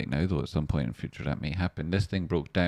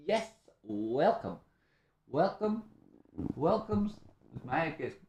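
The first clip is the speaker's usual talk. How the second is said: sing-song welcome; 9 semitones higher, 5 dB quieter, slower than usual. Real, not acted. Welcoming new members.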